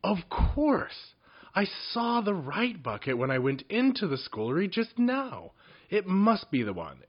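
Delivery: high, bright cry of sudden discovery; excited goblin. A narrator's reading. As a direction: goblin thrilled by his own idea. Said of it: "jumped into his feet in excitement".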